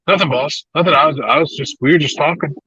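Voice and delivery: high, meek stammering denial; mock sheepish backpedal. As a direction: backpedal innocently to the boss, imitating. Retelling sheepish backpedal to boss.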